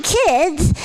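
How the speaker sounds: lightly voiced bratty cartoon kid; a hint of a snotty little brat. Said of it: "they talked a little bit something like this".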